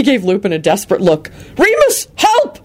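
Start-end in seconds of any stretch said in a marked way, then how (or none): 1.6-2.6 high frantic call for help; frantic yell. A narrator's reading. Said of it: "he yelled frantically".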